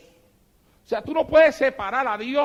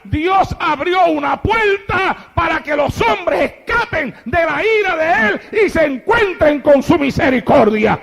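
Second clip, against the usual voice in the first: louder, higher, slowed preaching cry; climactic preaching shout; 6 semitones higher, 6 dB louder than usual. Acted. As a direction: proclaim it at full volume. (clamor de predicador)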